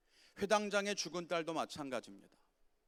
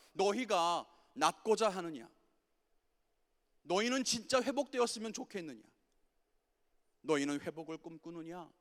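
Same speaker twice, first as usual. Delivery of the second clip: slow, louder searching question; God asking slowly; 4 dB louder than usual. Retold or imitated. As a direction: press them slowly, gently. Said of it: "우리들에게도 똑같이 말씀하십니다". (예수님이 우리에게 천천히 묻는 목소리)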